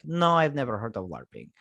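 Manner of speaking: put-on Russian accent; casual mock Russian accent. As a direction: imitate him with an accidental Russian accent. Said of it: "I do the Russian accent".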